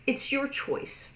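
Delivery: high airy whisper. Shown as a demonstration. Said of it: "ways that we as English speakers".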